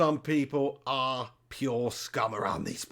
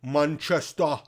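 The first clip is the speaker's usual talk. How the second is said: Manchester accent attempt in the manner of a Manc rock singer; Manc accent; 3 dB louder, slower than usual. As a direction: try to sound like a Manc rock singer. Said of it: "sound like you're a Manc rock singer".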